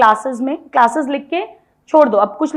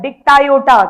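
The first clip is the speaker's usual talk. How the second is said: Dictyota called out louder for the class; 5 dB louder, much slower than usual. Shown as a demonstration. Teacher leads class to repeat, calling the name louder. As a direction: lead the class in shouting "Dictyota". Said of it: "बोलो मेरे साथ".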